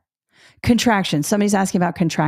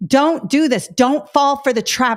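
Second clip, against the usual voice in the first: firm, a touch louder warning to students; stern warning; 4 semitones higher, 3 dB louder, slower than usual. Retold or imitated. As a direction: warn the kids off the trap, stern. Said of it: "being very stern with them".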